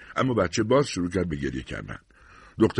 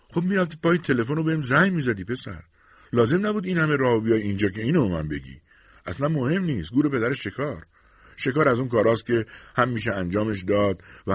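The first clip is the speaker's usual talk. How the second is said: a hint of an easygoing friend, pitched higher; lightly voiced Carl; 5 semitones higher than usual.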